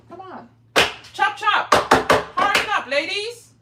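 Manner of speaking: loud, high mock-bossy rush; hurry-up call. To the live chat, a loud mock-bossy hurry-up. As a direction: herd them along like a foreman.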